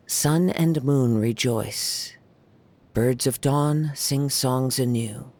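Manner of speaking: slow, measured poem recital; reciting a haiku. Acted. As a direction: savour each word of the verse, very slowly. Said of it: "so I wrote a haiku for you".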